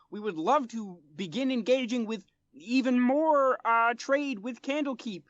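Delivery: high, earnest little frog-man voice, pitched well up; a small amphibian diplomat pleading politely; frog folk interpreter. Acted.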